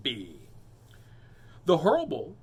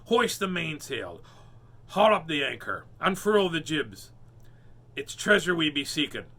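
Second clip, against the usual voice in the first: pirate orders; 5 dB louder than usual. Acted. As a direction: bellow orders across the deck. Pirate gives orders to crew.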